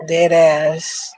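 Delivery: put-on slow, drawn New York accent. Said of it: "in my New York accent".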